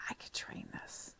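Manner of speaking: whispered to herself; thinking aloud in class, whispered; inner whisper. Retold or imitated. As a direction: whisper the thought under your breath. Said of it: "I sit in there and I'm like".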